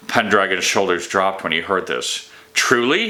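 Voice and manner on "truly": amazed. A narrator's reading. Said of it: "whirling on the wizard in amazement".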